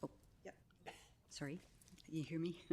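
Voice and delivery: choppy call audio dropping out; broken-up line on a video call; bad connection. Real, not acted. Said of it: "forgive the choppiness".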